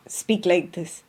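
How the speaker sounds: measured, restrained mock-holy delivery; put-on holy speech. Shown as a demonstration. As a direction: suddenly speak like a composed saint. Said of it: "She's not going to suddenly".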